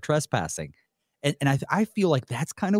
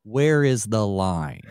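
sly student question; 4 semitones lower, slower than usual. Retold or imitated. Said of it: "all their questions turn into".

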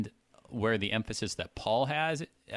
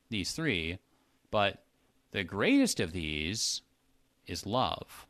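measured Bible reading; emphatic scripture reading. Shown as a demonstration. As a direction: read the passage with weight on each emphasis. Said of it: "I was trying to emphasize the words".

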